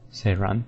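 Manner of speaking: Seiran said "SAY-run"; "Seiran" ending like "run"; official pronunciation. Shown as a demonstration. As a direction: open Seiran like the word "say". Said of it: "it's Seiran".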